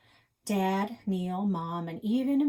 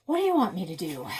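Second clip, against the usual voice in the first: snap; 7 dB louder, faster than usual. Acted. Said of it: "like a snap, quick and sharp".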